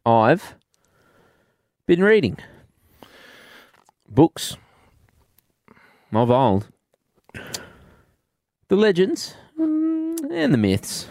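a hint of a frail old woman, drawn out; dying grandmother voice. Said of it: "She's gone with the dying grandmother voice".

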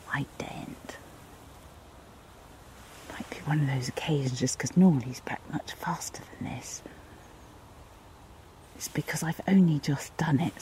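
quick hushed commentary; wildlife watching whisper. Real, not acted. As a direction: whisper like a nature spotter. Hiding, watching the dog.

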